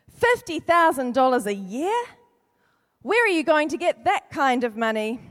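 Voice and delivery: disbelieving question about the price; male voice. Acted. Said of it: "exclaimed his friend".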